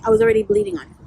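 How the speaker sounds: high incredulous echo; high mock repeat. Shown as a demonstration. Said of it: "You know what I mean?".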